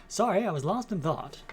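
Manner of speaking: put-on old-Hollywood Mid-Atlantic accent. Shown as a demonstration. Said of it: "Maybe we'll do Mid-Atlantic accent".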